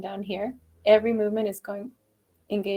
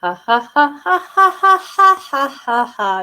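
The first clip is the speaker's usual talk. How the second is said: pinched, higher, louder ha; tight squeaky ha; 7 semitones higher, 9 dB louder, slower than usual. Shown as a demonstration. Coach imitating a tight, squeaky wrong ha. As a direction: squeeze the ha in the throat. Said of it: "So it'll be kinda like".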